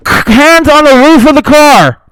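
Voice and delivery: loud, high, slow barked command; cop shouting orders. Retold or imitated. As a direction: drag each word out like a furious officer.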